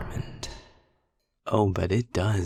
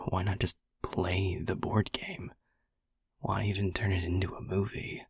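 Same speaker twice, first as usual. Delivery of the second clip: flirty whisper. Acted. Incubus teasing the listener about movies, whispered. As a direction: breathe it close into the ear.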